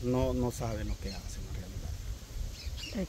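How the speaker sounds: quiet, slow forgiveness. Retold or imitated. Jesus on the cross answering his Father, quiet and slow. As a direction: let it come out soft and slow, from the cross. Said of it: "Y él dijo".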